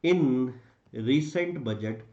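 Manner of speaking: very slow, word-by-word dictation; dictating. Shown as a demonstration. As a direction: spell out the answer phrase by phrase. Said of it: "हम target भी लिख सकते हैं".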